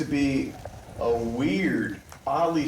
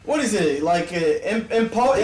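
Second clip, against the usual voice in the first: hag voice; 7 semitones higher, 5 dB louder than usual. Acted. Hag voice continues.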